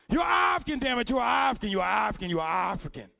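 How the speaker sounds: a stranger yelling that he's African, fading down; insistent shouting. Retold or imitated. Man insisting he's African, shouting then fading.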